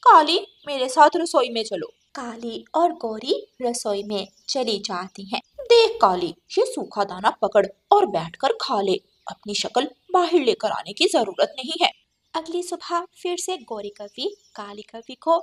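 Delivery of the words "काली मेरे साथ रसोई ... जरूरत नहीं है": louder, bossy scolding; harsh sister-in-law. Acted. Cruel sister-in-law bosses Kali in the kitchen, loud. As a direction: order her around with contempt.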